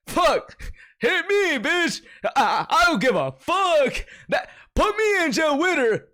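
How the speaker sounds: high, hammed-up simp voice mocking commenters; mock thirsty commenter. Mocking fans who comment about his attacker, high hammed-up simp voice. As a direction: play a lovestruck fan to ridicule them. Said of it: "Y'all were commenting shit like".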